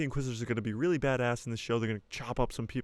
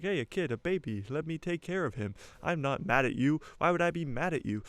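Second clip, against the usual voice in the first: cheerful uncle; 5 semitones higher than usual. Retold or imitated. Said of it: "He's like".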